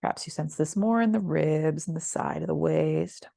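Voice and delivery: unhurried yoga body-scan voice, long pauses between phrases; calm, spacious meditation cueing; guided meditation. Real, not acted.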